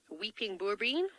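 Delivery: "boerbean" in an oddly accented Afrikaans attempt; slightly off accent on "boerbean", rising at the end; weird accent. Real, not acted. Safari guide naming a tree for viewers, weird accent. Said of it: "I said that in a weird accent".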